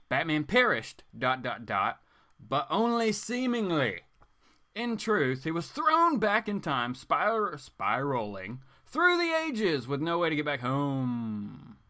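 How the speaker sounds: dramatic blurb read. Acted. Comic vlogger reads the back cover as a dramatic trailer.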